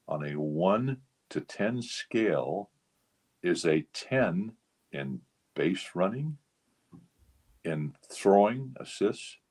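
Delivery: slow, weighing every category; deliberate verdict. Retold or imitated. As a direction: lay out each point slowly like a final judgment. Durocher's measured verdict quoted.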